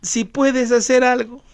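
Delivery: a half-hearted hedging plea; tentative, doubtful prayer. Retold or imitated. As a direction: pray without conviction. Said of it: "Primero estaba orando así". (oración tibia y dudosa)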